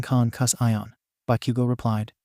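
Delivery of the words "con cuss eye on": "con cuss eye on" spelled out syllable by syllable; exasperated stress. A narrator's reading. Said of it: "emphasizing the word with as much exasperation".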